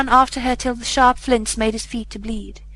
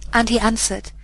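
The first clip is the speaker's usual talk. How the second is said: usual speaking voice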